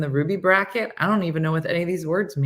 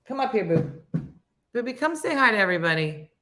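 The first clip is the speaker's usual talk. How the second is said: coaxing; 4 semitones higher than usual. Real, not acted. Coaxing pet onto camera.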